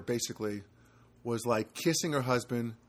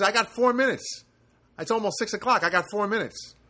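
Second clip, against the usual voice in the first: imitated urgency; 7 semitones higher, 4 dB louder than usual. Acting out the hurried startled neighbor.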